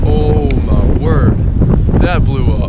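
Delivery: stunned, drawn-out exclamation; surprised. Real, not acted. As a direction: caught off guard by the blast. Target bursts on the shot.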